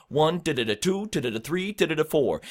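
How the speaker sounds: stressed numbers with light "da, da, da" between; rhythmic filler count. Shown as a demonstration. Coach fills space between beats, rhythmic count with stressed numbers. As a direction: bounce through "da, da, da", landing hard on "One", "two", "three", "four". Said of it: "you got space in between".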